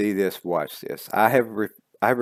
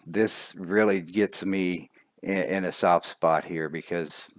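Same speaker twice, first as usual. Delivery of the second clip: emotional; slower than usual. Real, not acted. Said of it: "I get a little emotional".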